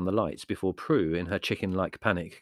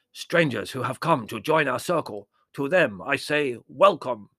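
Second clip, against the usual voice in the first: put-on raised, measured Indian-accented medium; strong Indian accent; 5 semitones higher, 6 dB louder than usual. A narrator's reading. Medium greeting newcomers to the circle, strong Indian accent. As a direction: welcome them grandly in an Indian accent. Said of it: "with such a strong Indian accent".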